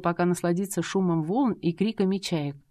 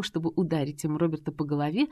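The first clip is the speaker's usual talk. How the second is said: usual speaking voice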